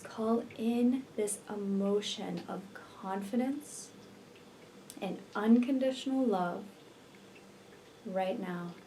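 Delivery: unhurried meditation voice with long pauses; guided meditation. Real, not acted. Healer leading listeners to visualize twin flame union, guided meditation. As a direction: guide the listener gently into relaxation, leaving space between phrases.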